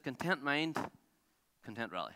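lightly put-on French accent, dropping on the second phrase. French champion giving his secret to an amateur, light French accent. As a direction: hand down the motto in a mock French accent. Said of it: "in his French accent".

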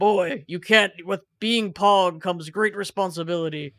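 loud, stern, put-on father voice; Kratos voice. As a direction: boom it out like a gruff god. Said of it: "Kratos is like".

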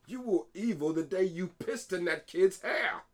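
slow, high mock British scolding; theatrical British telling-off; British accent. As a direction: put on an indignant British accent, loud. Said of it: "say it in this fucking British accent".

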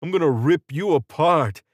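snarled-out threat, a restrained narrator's scream; angry scream. A narrator's reading. Wounded Carmine threatening Israel, screaming angrily. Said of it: "he screamed".

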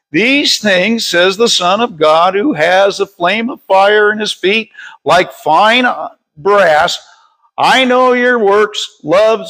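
measured read-aloud Bible verse; scripture reading. Real, not acted. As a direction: read it out deliberately to a congregation. Reads scripture aloud to congregation.

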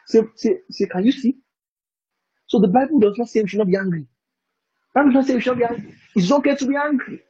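high-pitched mimicry of people arguing from a verse; imitating other Bible readers. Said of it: "the way I've heard people read it".

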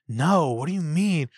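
mildly defensive mock protest; defensive gaslighting. Mimicking her refusing to talk about it, mildly defensive. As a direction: imitate a gaslighter deflecting blame, a touch put-upon. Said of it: "she gets so defensive".

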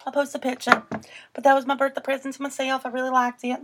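lightly put-on Southern accent. Friend showing off a birthday present to herself, Southern accent. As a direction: slip into a playful Southern twang. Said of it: "That's a nice accent you got going on".

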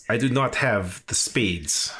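mock Russian accent. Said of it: "his Eastern Europeans".

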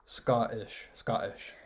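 "Scottish" with the T stopped in the throat; glottal stop attempt. Shown as a demonstration. Student practising for teacher, glottal stop. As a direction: try a throat catch in place of the T of "Scottish". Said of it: "try using the glottal stop".

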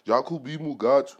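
Jacobi Mugatu in an African accent. Shown as a demonstration. Host offering another way to say his name, African accent. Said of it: "Or with an African accent".

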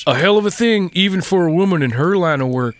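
lightly voiced old trapper; a hint of a gruff mountain man; Skins voice. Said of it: "in Skin's voice".

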